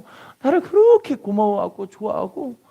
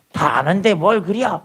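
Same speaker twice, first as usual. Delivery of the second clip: lightly imitated slow Chungcheong drawl; a mild Chungcheong country twang, unhurried; Chungcheong dialect; slower than usual. Pastor mimicking a Chungcheong husband, mild Chungcheong accent. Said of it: "충청도 분들은".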